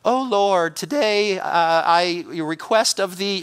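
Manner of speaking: mock pious prayer, halting; flowery, spiritual-sounding. Preacher mocking a request meant to appease God, flowery. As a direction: imitate someone tiptoeing politely around God. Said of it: "flowery language and some spiritual sounding request".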